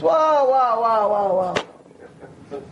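put-on an old lady in awe, petering out; amazed old woman. Old woman marvels at Rav.

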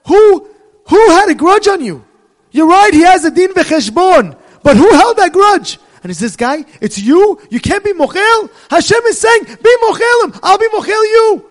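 loud, high, booming divine reproach; God's voice. Acted. Hashem confronts the grudge holder, loud and booming. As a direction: make God ring out in rebuke. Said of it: "And Hashem goes back and says".

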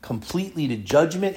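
low, subdued voice of a son confiding; hushed, low acted dread; retold tearful resignation. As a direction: quietly imitate a son's grave lament, no real sobs. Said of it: "he's crying because things are gonna be difficult".

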